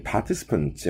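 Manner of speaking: "participants" British-style, with a silent R; British pronunciation. Shown as a demonstration. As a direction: say "participants" in a British accent, R dropped. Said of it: "영국식 발음이죠".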